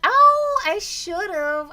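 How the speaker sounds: loud, high-pitched exclamation of realization; sudden realization. Real, not acted. Streamer asked about speaking in a British accent, sudden loud realization. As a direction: burst out high and loud, kicking yourself.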